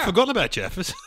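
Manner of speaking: excited near-shout; excited realisation. Retold or imitated. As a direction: shout it out as if you just remembered something you loved. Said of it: "where you go".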